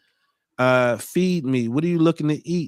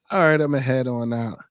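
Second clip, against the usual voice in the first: meme quote; 3 dB louder than usual. Retold or imitated. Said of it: "that SpongeBob meme used to go?".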